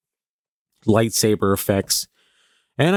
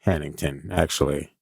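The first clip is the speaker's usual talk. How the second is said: mock snooty correction; 5 semitones lower than usual. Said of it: "They're like".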